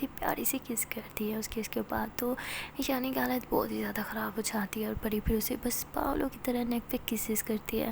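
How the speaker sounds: soft breathy intimate story whisper; whispered narration. A narrator's reading. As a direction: draw the listener close, hushed. (धीमी फुसफुसाती कथा-वाचन)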